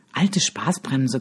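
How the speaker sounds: low growl. A narrator's reading. Franzi growls at Tom, calling him a killjoy, slow and low. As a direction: growl it under your breath, slowly. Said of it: "knurrt Franzi".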